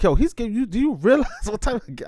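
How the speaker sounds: high, excited retelling of being blown away; amazed excitement. Retold or imitated. Host telling the guest how hearing Dame's free game blew him away, excited and high.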